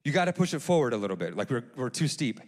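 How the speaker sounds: understated, unruffled pilot's correction; retold calm coaching, no alarm; calm instruction. Pilot corrects a steep takeoff, calmly. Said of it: "he, he very calmly".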